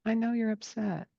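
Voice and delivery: soft, tender comfort to a crying son; a kind father calming his crying son; gentle dad. Retold or imitated. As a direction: hush and soothe the boy. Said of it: "he said".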